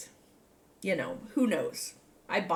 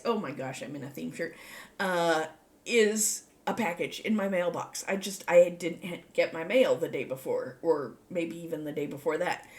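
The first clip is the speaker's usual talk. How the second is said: ordinary talk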